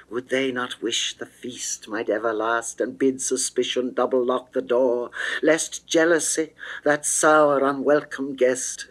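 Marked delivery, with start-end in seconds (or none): none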